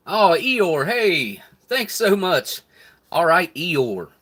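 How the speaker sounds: high, loud, delighted thanks; light up and thank them loudly; excited thanks. Real, not acted. Thanking a donor for super chat.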